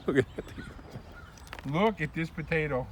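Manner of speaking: slow, hushed whisper of awe; awed whisper. Real, not acted. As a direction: breathe it out in wonder. Awed by potato.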